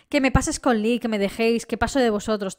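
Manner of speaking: imitating a daughter brushing off her family; bratty teenager. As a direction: play her as a careless spoiled girl. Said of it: "con un plan de niñata estúpida".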